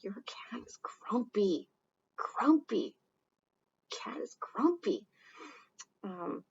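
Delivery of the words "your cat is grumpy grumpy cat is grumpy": slow whispered grumpy. Acted. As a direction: whisper it like the cat might hear. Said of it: "friend's cat".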